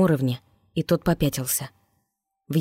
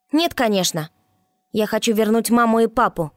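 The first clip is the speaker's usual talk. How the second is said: raised, higher voice in anger; angry outburst; 6 semitones higher than usual. A narrator's reading. Boy shouts at the guard that he wants his parents back, angry. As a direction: fling it out in grief and anger. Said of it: "выкрикнул тот с гневом".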